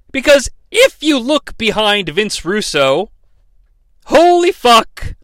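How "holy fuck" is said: high drawn-out astonished exclamation; shocked. Real, not acted. Noticing something shocking in the background, stunned. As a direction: gasp it out in disbelief.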